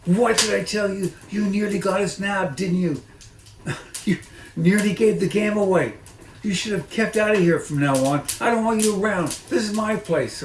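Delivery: high, loud, squeaky rat voice; the rat shrieks at the fox, high and loud; shrieking rat. Acted. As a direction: screech like an angry rat.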